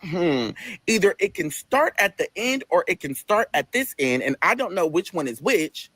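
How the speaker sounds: slow, mock deliberation; acted pondering. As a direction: think it through aloud, slowly. Puzzling over table numbering.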